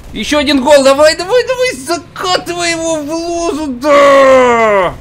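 high, loud goal yell; excited shouting. Real, not acted. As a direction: scream it into the net.

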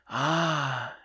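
high pained sighing Ah. A narrator's reading. Weary man waking to city noise, pained sigh. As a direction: sigh it out with a sense of pain. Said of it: "he sighed with a sense of pain".

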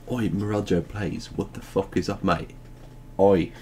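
casual mock-British banter; British accent. Gamer imitating British people, mock British accent. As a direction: put on a cheeky British "oi, mate" accent. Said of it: "That's what British people say".

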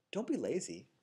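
sweetly. Retold or imitated. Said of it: "totally sweetly".

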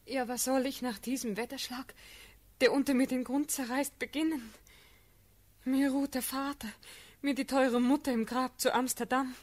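distressed lament. Acted. Orphan asked about her future.

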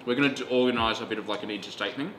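talking while chewing; words round a bite of food; mouth full. Real, not acted. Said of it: "Don't really talk with my mouth full".

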